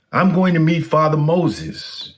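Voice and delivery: a man keen to meet a famous monk; eager traveler. Acted. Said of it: "he told the monk".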